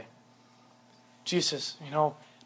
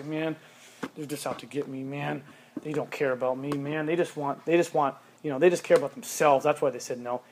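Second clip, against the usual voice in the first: put-on sulky teen; 4 semitones lower, 5 dB quieter than usual.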